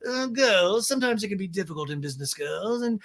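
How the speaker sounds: high put-on voice with stretched phrases; Lisa impression. Boss advising girls about business on a call, mock impression. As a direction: lecture them from up high in pitch. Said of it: "And Lisa's like".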